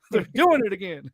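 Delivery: a high, half-laughing hint of Southern caricature; Cal McNair Southern voice. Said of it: "Southern accent, uh, Cal McNair voice".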